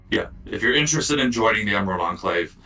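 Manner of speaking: lightly voiced raspy cat; a hint of a deep, raspy messenger cat. Game master as cat inviting players to join, lightly deep and raspy. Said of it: "like a deep, raspy voice".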